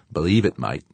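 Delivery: emphatic agreement. Acted. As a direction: hit "Believe" with a grin. George grinning agreement.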